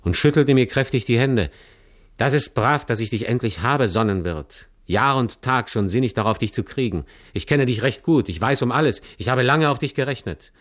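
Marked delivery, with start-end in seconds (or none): 2.2-10.5 eager robber. Acted. Robber warmly welcomes the poacher Wolf, eager and glad. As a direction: welcome him like a longed-for ally.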